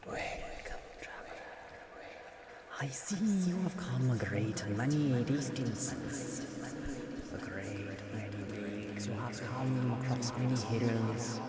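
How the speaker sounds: a game master's put-on Irish lilt for a village elder; a half-hearted Irish accent. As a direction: greet the traveler in a hammy Irish brogue. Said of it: "I'm trying to do, uh, an Irish accent".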